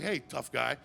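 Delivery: low stern nun voice. Acted. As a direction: order them out lowly. Nun scolding.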